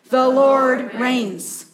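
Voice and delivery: slow and weighty, every word given its own beat; slow unison recitation. Shown as a demonstration. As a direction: lead the congregation, leaning on "Lord". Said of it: "Once more".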